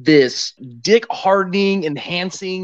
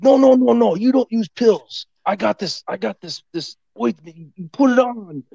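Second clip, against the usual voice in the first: higher, emphatic imitation of an African-accented man; passionate insistence, accented; 4 semitones higher than usual. Imitating Kwame pushing his ointment, passionate accented insistence. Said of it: "he's so passionate, like, when he talks".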